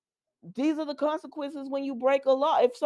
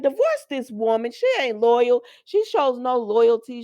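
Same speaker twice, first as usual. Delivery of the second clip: telling the husband off for the disloyal wife; exasperated demand; 2 semitones higher, 5 dB louder than usual. Real, not acted. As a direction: lay down the verdict firmly. Her advice shouted at a character.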